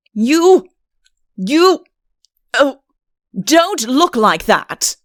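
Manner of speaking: loud flustered protest; flustered outburst. Acted. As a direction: sputter it out, flustered. Udo flustered by her look.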